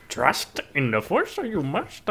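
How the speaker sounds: slow, rising at the end; hammed-up Yoda. Cohost closing the bit as Yoda, slow with a high rising tail. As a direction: stretch it out like a wise old puppet.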